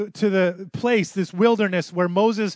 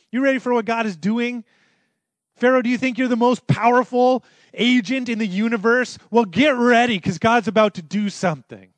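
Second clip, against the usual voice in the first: defiant challenge; 5 semitones higher, 4 dB louder than usual. Acted. Aaron taunting Pharaoh.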